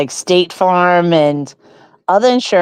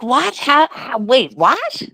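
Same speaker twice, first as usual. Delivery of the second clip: shocked disbelief; 5 semitones higher, slower than usual. Retold or imitated. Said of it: "I was like".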